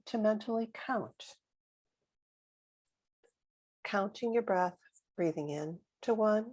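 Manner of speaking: calm meditation guide with long pauses; guided meditation. Real, not acted. Guide settling listeners into a comfortable position, calm meditation voice. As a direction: guide them into the breath, unhurried.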